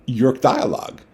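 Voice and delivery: exasperated author demanding his rights; indignant protest. Retold or imitated. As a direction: argue your case with rising frustration. Protesting to his own characters.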